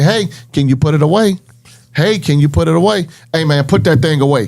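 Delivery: easy tone turning steadily firmer and harder. Retelling how they ask a student to put a phone away: imitating own escalating warning. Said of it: "the conversation is gonna gradually get different".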